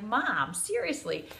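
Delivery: exasperated daughter. Retold or imitated. Daughter annoyed at mom reading papers.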